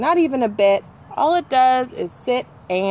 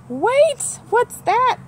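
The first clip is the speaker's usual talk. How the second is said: much higher, sudden alert question; surprised; 14 semitones higher, 3 dB louder, much slower than usual. Acted. Hearing a sound from the nest, suddenly surprised. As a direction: stop short at a sudden noise.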